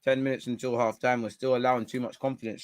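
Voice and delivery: talking with a mouth full of food. Real, not acted. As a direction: speak through a mouthful. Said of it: "Sorry for talking my mouth full".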